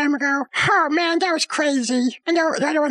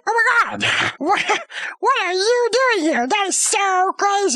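excited; 4 semitones higher than usual. Retold or imitated. Friends bump into each other.

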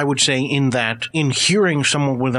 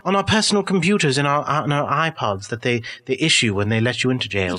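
sarcastic. Acted. Ex-prisoner mocks the idea of downloading in jail, sarcastically. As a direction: heap sarcasm on a silly suggestion. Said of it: "I was being sarcastic".

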